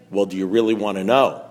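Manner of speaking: low, measured, knowing question; knowing sponsor. Retold or imitated. Sponsor offering an answer to the whiner, knowing.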